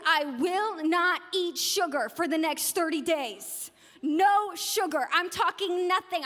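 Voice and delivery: slow, punched-out diet pledge; playfully stern, word-by-word determination; mock resolute vow. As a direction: swear off it with exaggerated firmness. Acted vow at start of diet.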